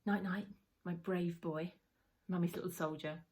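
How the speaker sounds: gently doting mum, unhurried; fond bedtime goodnight. Retold or imitated. Mother tucking her little boy into bed, tender. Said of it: "give him a kiss and say".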